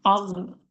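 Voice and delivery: "আগ" caught, then sliding in a slight rasp; sakin ghain. Shown as a demonstration. Teacher shows sakin to learners, caught raspy ending. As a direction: stop on the end of "আগ" and let it slip forward. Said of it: "যখন সাকিন দিবে একবার আটকে যাবেন".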